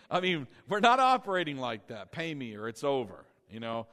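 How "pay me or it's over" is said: mafia boss. Retold or imitated. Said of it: "like a mafia boss".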